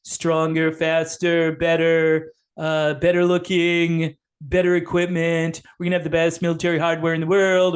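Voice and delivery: a hint of Trump bragging about himself; Trump impression. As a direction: brag like a salesman president. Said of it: "Trump said".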